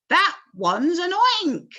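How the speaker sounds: slow, high, loud scream. A narrator's reading. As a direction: scream in terror. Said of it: "screamed the head of the fire department".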